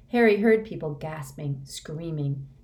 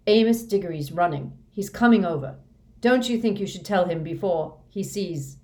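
raised, urgent warning; agitated urging; 2 semitones higher, 6 dB louder than usual. A narrator's reading. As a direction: press him anxiously, voice up. Fudge urges Dumbledore as father approaches.

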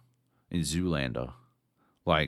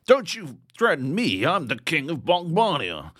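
higher, louder overacted royal outrage; hammy king voice; 9 semitones higher, 5 dB louder than usual. Parodying the game's king, hammed-up higher and louder. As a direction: bellow it like a pompous dubbed king. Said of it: "I just kept doing the same voice".

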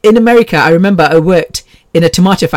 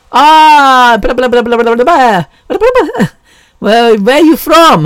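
much higher, rapid mock Spanish gibberish; mock Spanish coworker; 6 semitones higher, 3 dB louder than usual. Coworker chattering at her in the break room, mock Spanish. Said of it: "she goes".

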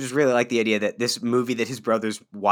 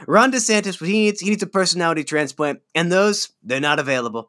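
higher mock Trump voice; imitating Trump; 5 semitones higher than usual. Quoting Trump's jab at DeSantis, mock Trump voice. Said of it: "He was like".

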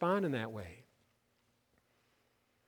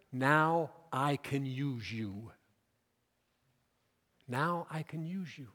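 gentle acceptance. Acted. Christ accepts the humbled Peter.

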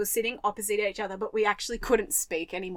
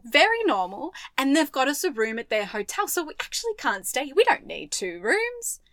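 fake casual lie; 4 semitones higher, 4 dB louder than usual. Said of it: "the worst lie ever".

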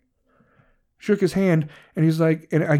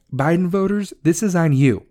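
accusing rant; 4 semitones higher, 4 dB louder than usual. Real, not acted. Ranting at Biden voters.

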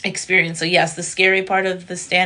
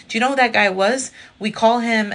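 higher, louder gossip; cousin's excited gossip; 5 semitones higher, 6 dB louder than usual. Retold or imitated. Cousin in the bathroom telling the comic, excited gossip. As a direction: spill the tea eagerly. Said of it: "she goes".

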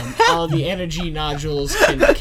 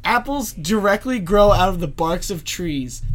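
conspiracy theorist; 6 dB louder than usual. Pretend. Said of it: "And that's Jack's Conspiracy Corner".

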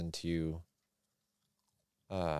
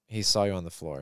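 normal talking voice

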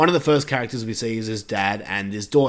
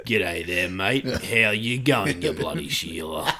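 bad Australian accent; 3 semitones lower than usual.

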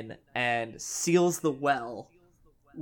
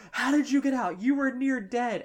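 startled quote, higher and louder; 9 semitones higher, 5 dB louder than usual. Retold or imitated. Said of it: "she's like".

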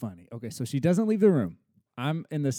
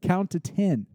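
put-on insistent toddler; 6 semitones higher, 6 dB louder than usual. Toddler correcting dad's counting.

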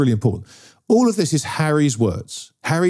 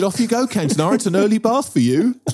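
cheery quote; 6 semitones higher than usual. Retold or imitated. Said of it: "I said".

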